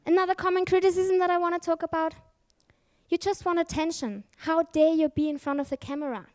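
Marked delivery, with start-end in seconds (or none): 3.1-6.3 higher-pitched imitation of an indignant critic; hammed-up scolding, throwing the blame; mock accusation.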